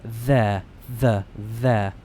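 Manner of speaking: There and the with a voiced th; th sound. Shown as a demonstration. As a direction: lean on the th in there. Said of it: "It's a the sound".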